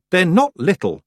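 a touch of a sharp retort, high; snapped. A narrator's reading. Girl snapping at the old witch about her hills. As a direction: snap back at her, stung. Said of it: "Tiffany snapped".

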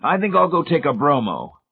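a god announcing he feels queasy; booming godlike voice. Acted. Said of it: "ringing, godlike tones".

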